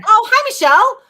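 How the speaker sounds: high, loud happy hello; excited greeting. Real, not acted. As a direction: squeal hello to a friend. Greeting a viewer.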